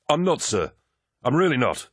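high, quick, scared denial; panicked denial. A narrator's reading. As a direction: deny it in a rush of fear. Soldier's frightened denial.

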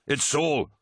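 high, eager call; relieved cry. A narrator's reading. Tarvitz answering his honor brother, crying out in relief. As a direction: call out your name in relief. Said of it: "he cried".

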